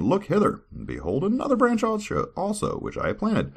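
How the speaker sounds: high, grand proclamation; grand lord. Acted. God showing servant his tree, high and grand. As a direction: call out proudly like a lord. God's quoted speech, raised.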